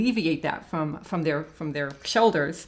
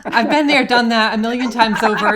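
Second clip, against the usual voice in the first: emphatic agreement; 3 semitones higher, 9 dB louder than usual. Real, not acted.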